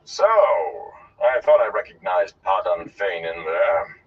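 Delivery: a touch of slow disdain; scornful. Acted. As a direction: drawl it out with mild contempt. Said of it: "replaced by scorn".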